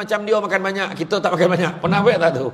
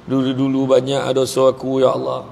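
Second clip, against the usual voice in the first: mock weeping prayer; 6 semitones lower than usual. Shown as a demonstration.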